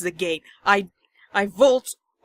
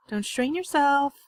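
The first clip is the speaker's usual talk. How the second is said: Monika calling out; 6 semitones higher than usual. Acted. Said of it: "Monica calls that out after me".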